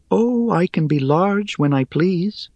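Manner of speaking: high, airy, teasing spider; airy little voice. Acted. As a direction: toss it off lightly, amused. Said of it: "in her airy little voice".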